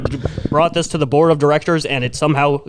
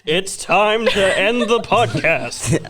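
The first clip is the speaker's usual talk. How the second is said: announcer voice; 4 semitones higher, much slower than usual. Pretend. Announcer-style sign-off.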